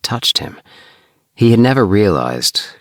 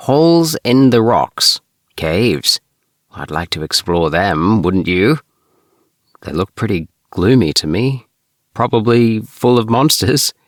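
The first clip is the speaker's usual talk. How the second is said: lightly voiced eager young spaceman, a bit higher; a hint of a curious adventurer, pitched up; Ring's voice; 6 semitones higher, 4 dB louder than usual. Ring speaks to Bart.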